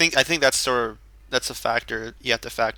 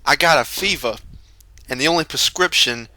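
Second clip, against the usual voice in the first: louder, hammed-up meme line; hammed-up meme quote; 3 semitones higher, 5 dB louder than usual. Friend hams up a meme to the group, louder. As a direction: belt out the fever meme for laughs.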